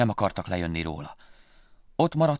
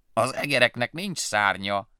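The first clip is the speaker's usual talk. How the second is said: firm; 2 semitones higher, 4 dB louder than usual. Acted. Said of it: "felelte határozottan a denevér".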